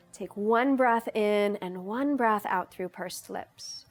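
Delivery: calm, unhurried meditation guidance; guided meditation. Real, not acted. Yoga teacher leading viewers into breathing, in guided meditation style. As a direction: guide them gently, pausing between instructions.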